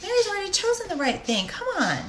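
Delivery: a hint of a laid-back Jesus, not mad; Jesus, mildly voiced. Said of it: "He's like".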